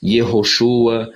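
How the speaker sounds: "Yehoshua" slow, stressing YE-HO; Hebrew name. Shown as a demonstration. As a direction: sound out "Yehoshua" carefully. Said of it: "com Yehô no começo". ("Yehoshua" pronunciado devagar)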